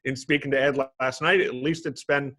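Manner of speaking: ordinary talk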